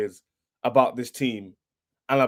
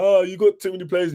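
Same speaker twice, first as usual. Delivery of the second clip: higher, whiny mock rival fan voice; mocking the haters; 5 semitones higher than usual. Fan mimicking rival haters with a whiny mock voice. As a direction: sneer their words back in a silly voice. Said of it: "When everyone was like".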